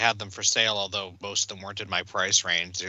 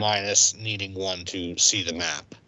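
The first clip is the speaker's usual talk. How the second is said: talking while chewing food; words through a mouthful of food; mouth full. Real, not acted. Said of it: "Don't talk with your mouth full".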